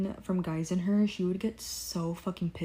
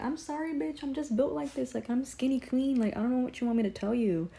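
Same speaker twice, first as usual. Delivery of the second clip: sassy; 5 semitones higher than usual. Retold or imitated. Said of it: "It's like".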